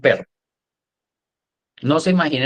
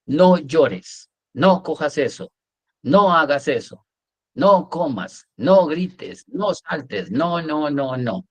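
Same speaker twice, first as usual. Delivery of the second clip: mock nagging parent, higher at first, falling away; mock parental nagging; 3 semitones higher, much slower than usual. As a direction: reel off prohibitions like a nagging parent. Parent's string of prohibitions acted out. (regaño de padre imitado)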